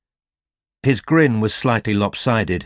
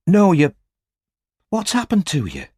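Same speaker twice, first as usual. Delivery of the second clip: higher alarmed question; startled by how he looks; rising alarm in a young woman's voice; alarmed Robin; 9 semitones higher than usual. A narrator's reading.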